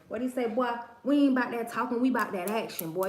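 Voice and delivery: imitated Louisiana accent. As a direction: put on a playful Louisiana accent. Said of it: "them people with them Louisiana accents".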